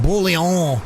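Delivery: put-on Bullion drawn out in a jokey French accent; mock French accent. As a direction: say the name like a cartoon Frenchman. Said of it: "I was just doing my French accent".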